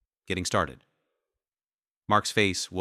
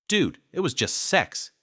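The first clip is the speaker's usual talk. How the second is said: lover voice; 10 semitones higher, 4 dB louder than usual. A narrator's reading. Lover shrugs off affair.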